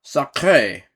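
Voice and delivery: loud yelp of surprise; startled exclamation. Acted. Saint Nick sitting on hot coals, yelping loudly in surprise. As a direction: cry out as the hot coals burn. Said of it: "he exclaim".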